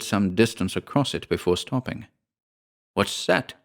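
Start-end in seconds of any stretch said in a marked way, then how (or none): 2.9-3.5 mildly anxious, higher-pitched question. A narrator's reading. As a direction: ask with a touch of anxiety. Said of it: "with anxiety in his tone".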